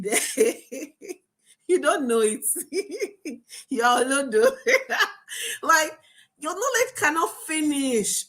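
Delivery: breaking into laughter mid-sentence; laughing at how absurd the idea is; real laughter. Real, not acted. Coach laughing at the idea of knowledge running out. Laughing at her own point.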